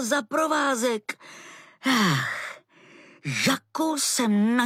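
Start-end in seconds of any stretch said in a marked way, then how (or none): 1.8-2.6 otrávené „ach“ s výdechem; rozmrzelé povzdechnutí. Acted. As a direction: vydechni to podrážděně. Zlost na Laseho tahajícího za provázek. (mrzutý povzdech)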